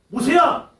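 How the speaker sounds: loud mocking call across a room; calling out a name. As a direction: call his name loud, half teasing. Brothers calling Moses by name.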